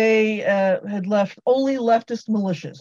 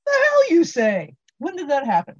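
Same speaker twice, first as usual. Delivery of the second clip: mock surprise; 7 semitones higher, 4 dB louder than usual. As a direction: play it as shocked. Mock incredulous listener.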